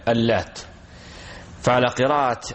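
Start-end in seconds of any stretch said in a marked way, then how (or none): 0.1-0.6 "اللات" with a doubled, held ت at the end; doubled final T. Shown as a demonstration. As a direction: say "اللات" stressing the final ت as a geminate. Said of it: "بتشديد التاء". ("اللات" بتشديد التاء في آخرها)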